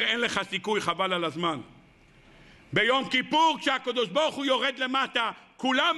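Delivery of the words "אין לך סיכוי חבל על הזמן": much lower, dismissive murmur; the body's low voice. Acted. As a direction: talk him down in a low voice. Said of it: "הגוף אומר".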